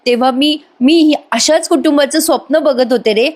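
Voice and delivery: high, pleading put-on distress; milk the sympathy with a whiny plea; faked heartache. Priya pleads with Ashwin for family, faked pitiful whine. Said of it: "कळवळा आणायचं नाटक करते".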